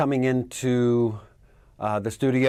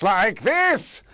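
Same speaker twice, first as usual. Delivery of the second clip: low goat voice; 9 semitones higher, 4 dB louder than usual. Shown as a demonstration. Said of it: "found his voice as this low register".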